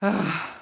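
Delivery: short voiced sigh; weary sigh. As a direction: sigh before gathering yourself. Alone, struggling to go on.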